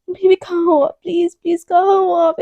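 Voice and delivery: mock tearful calling. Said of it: "एकदम रो पड़ती है".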